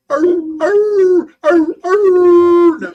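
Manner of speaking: loud, high coonhound howls; bay like hunting dogs far off in the woods; mimicked dog howling; imitated hound baying. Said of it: "All of a sudden, you'd hear".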